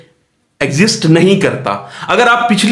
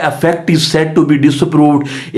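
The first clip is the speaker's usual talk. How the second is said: slow, deliberate dictation of the legal definition; teacher reading the act slowly to students; reading the statute slowly; much slower than usual. Shown as a demonstration. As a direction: read it out word by word like a law text. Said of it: "वो कहता है".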